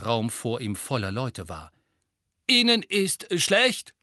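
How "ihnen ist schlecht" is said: high, slow, far-off professor voice; absent-minded old ghost. A narrator's reading. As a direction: drift through the question like a dreamy old ghost. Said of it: "wiederholte er zerstreut". (zerstreuter Geisterprofessor, hoch und langsam)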